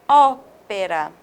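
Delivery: "ópera" slow with a wide-open ó; open ó demo. Shown as a demonstration. Teacher drawing out "ópera" with open ó for students. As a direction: stretch the open ó in "ópera" slowly. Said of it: "Com acento agudo, nós temos".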